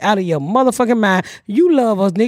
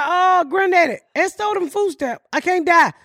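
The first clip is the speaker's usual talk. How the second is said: put-on much higher, frantic kid voice; a terrified child pleading, pitched way up; panicked child; 6 semitones higher than usual. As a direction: squeal it like a scared little kid. Child panicking after the hanging.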